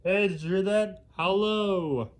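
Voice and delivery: loud howling wolf greeting. Pretend. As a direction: howl the words like a wolf. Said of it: "'Cause I do a wolf howl".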